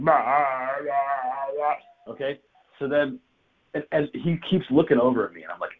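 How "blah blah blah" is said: drawn-out sheep-like bleating. Retold or imitated. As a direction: bleat it out, syllable by syllable. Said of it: "I feel like a sheep going".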